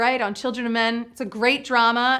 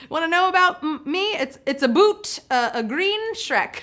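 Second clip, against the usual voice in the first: halting, badly faked Canadian Shrek; playful mock-Canadian voice; Canadian accent; 4 semitones higher than usual. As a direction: try hard at a jokey Canadian accent. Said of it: "trying so hard with my Canadian accent".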